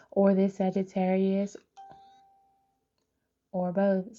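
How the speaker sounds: whispered aside. Real, not acted. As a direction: drop to a secret whisper.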